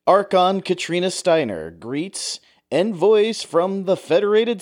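like a World War Two newsreel narrator; old newsreel. Retold or imitated. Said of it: "World War Two newsreel voiceover".

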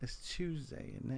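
"Tuesday" said softly as "tuzdeɪ" in a British accent; British "Tuesday, isn't it". Shown as a demonstration. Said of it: "They really did say it like that".

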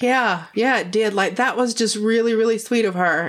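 quoting husband. Retold or imitated. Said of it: "he was like".

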